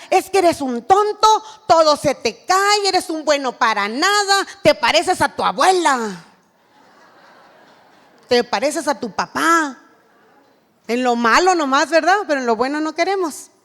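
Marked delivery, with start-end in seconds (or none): 0.1-9.8 put-on a parent scolding a clumsy child, mildly raised; mock scolding parent. Preacher imitating a parent berating her son, mild scolding. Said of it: "Si antes le decía".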